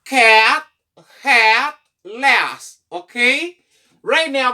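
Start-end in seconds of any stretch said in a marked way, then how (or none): 0.0-2.8 "Cat, hat, last" each with a short, open A. Shown as a demonstration. Teacher drills short sound for class, short A. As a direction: model "Cat, hat, last" one word at a time, short vowel. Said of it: "m di pale de short sound".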